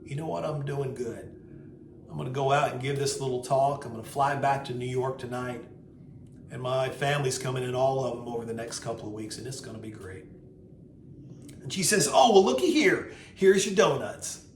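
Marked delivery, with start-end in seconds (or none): 0.0-10.2 settled, softly easing acceptance; calm. Retold or imitated. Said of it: "I became very calm". 12.1-14.4 high, loud, cheery Southern server; Southern lady. Retold or imitated. Server cheerfully presents the donuts.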